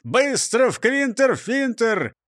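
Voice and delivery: high-pitched, stretched-out order; rallying command. A narrator's reading. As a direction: order it word by word, urgently. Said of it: "приказал браншеф".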